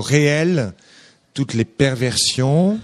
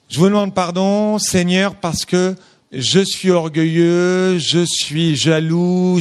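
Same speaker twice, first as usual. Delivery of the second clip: mock pious penitent; 3 semitones higher, slower than usual. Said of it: "la personne qui dit".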